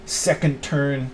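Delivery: slow, savoring build that bursts loud on dude; mock excitement. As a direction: hype up the card combo like a kid, then blow up loud.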